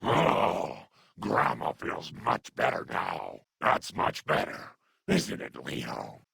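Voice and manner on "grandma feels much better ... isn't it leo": relieved. Acted. Relief after healing.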